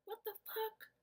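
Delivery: high, hushed mock shock; whispered disbelief. Girlfriend reacting to her boyfriend, whispered disbelief. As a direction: whisper it, stunned.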